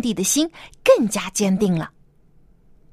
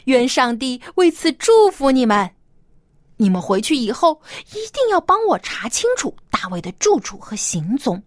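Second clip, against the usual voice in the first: falsely sweet; 2 semitones higher than usual. Acted. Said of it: "他假惺惺地说".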